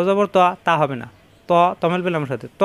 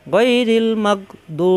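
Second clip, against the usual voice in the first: slow model reading; 3 semitones higher, much slower than usual. Shown as a demonstration. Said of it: "teacher models the word slowly".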